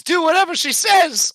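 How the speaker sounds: high, loud put-on command; Macy telling the kobold to obey; Macy ordering. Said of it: "and she says".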